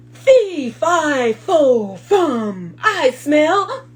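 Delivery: loud booming giant chant; giant's roar. Acted. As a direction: boom out the giant's rhyme. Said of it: "and said".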